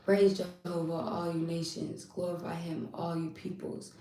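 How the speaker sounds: quiet, reverent scripture recitation; soft psalm reading. Acted. Reading the psalm's praise to viewers, soft and reverent. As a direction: read it softly, letting it fade.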